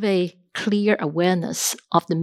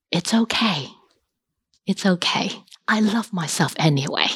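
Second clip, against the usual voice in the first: self-comfort. Shown as a demonstration. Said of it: "we remind ourselves".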